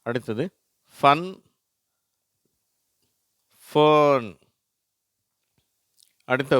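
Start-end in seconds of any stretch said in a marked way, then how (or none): 1.0-4.3 higher, louder ஃபன் short, ஃபர்ன் drawn out; short then long vowel. Shown as a demonstration. Teacher reading the next row, vowel-length contrast. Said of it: "இதை நான் வாசிக்கிறேன்".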